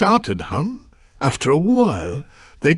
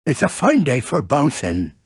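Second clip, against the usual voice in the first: lightly voiced bouncy tiger; Tigger. Tiger greets his friend on a bouncing day, lightly voiced character. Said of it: "said Tigger".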